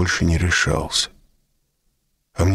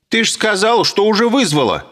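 mocking shrill woman; 4 dB louder than usual. A narrator's reading. Woman retorting.

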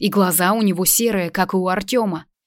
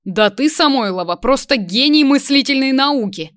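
sarcastic; 6 semitones higher, 4 dB louder than usual. A narrator's reading. Sarcastic mocking praise.

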